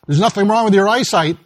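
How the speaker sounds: put-on a touch of old grouch; grouchy, crotchety husband. Husband answering his discouraged wife, grouchy. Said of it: "in his grouchy, crotchety way".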